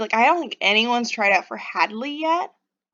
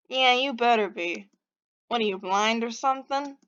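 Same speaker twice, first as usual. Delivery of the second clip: irritated, badly faked Boston accent; terrible Boston accent. Offended stranger scolding Pixie, in a bad Boston accent. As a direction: grumble it in amateur Bostonian. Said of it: "my terrible Boston accent".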